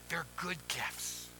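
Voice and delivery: quiet, slow reassurance; soft and slow. Acted. Pastor gently repeats the promise to the folk, soft and slow. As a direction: let each word land softly and slowly. Pastor softly assures the congregation.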